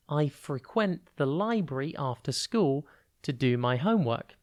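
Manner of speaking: "frequent" as a verb, stress on the second part, "freQUENT". Shown as a demonstration. Teacher showing pupils the verb stress, "freQUENT". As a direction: lean on the end of "frequent". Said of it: "Notice the change in emphasis in speech there".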